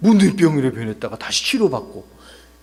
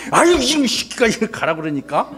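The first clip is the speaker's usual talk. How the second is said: comic scolding, pitched up; mock anger; 5 semitones higher than usual. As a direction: fake a cross outburst as a joke. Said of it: "하나님께 화가 나셨어". (장난스럽게 화내며 꾸짖는 말투)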